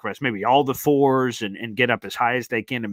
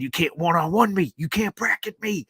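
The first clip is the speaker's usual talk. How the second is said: imitating the player; 6 semitones higher than usual. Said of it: "He, he said".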